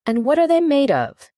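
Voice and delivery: high-pitched, eager question; storyteller voicing a very curious listener; great curiosity. A narrator's reading. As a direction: ask with keen interest. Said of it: "in a tone of great curiosity".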